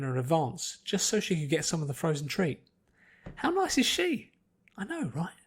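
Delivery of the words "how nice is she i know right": bubbly Pinky voice. Acted. Pinky's inner voice, high.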